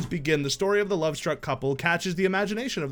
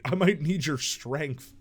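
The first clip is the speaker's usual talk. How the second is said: ordinary talk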